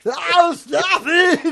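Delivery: high, loud whine; mock whiny protest. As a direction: squeal it out.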